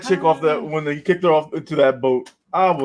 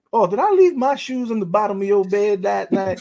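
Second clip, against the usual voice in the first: put-on Southern accent, slightly raised pitch; imitated Southern accent; 4 semitones higher than usual. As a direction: play it innocent in a Southern accent. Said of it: "She has that accent that".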